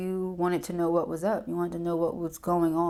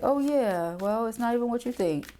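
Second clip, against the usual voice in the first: mock partner excuse; 5 semitones higher than usual. Voicing the evasive partner.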